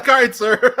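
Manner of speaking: scared, eager-to-please sir; nervous deference. Pretend. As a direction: act timid in front of someone powerful. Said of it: "I'd be like".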